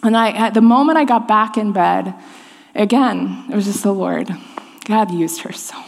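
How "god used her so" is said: soft, hushed whisper. Real, not acted. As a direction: breathe it out, moved. Moved aside about her friend.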